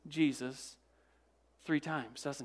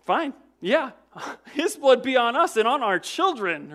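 careless; 6 semitones higher, 7 dB louder than usual. Retold or imitated. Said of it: "And they say".

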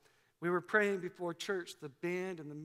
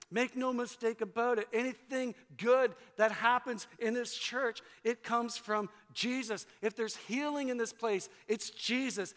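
preaching refrain. Acted. Pastor rousing his church with repeated lines, building preaching. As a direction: preach it, rising with each repeat.

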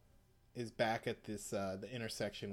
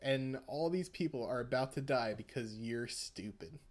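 higher, louder, laughing taunt; gloating villain; 5 semitones higher, 4 dB louder than usual. Retold or imitated. Villain mocking the boy he survived, laughing taunt. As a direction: crow over the boy through laughter.

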